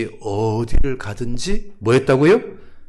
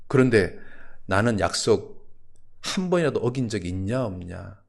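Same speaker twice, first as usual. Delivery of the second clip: low, measured questioning, softer at the end; God's questioning; 3 semitones lower, 3 dB quieter than usual. Acted. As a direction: ask it calmly as God, falling away. God questioning the pastor.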